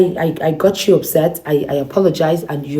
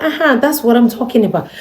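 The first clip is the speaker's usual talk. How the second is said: excited cheer; 8 semitones higher than usual. Retold or imitated. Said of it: "She was like".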